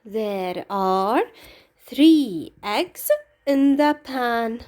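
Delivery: slow, deliberate full sentence; slow model answer. Shown as a demonstration. Teacher slowly modelling the answer starting with there. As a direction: say it slowly so pupils can copy it. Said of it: "We start with the word there".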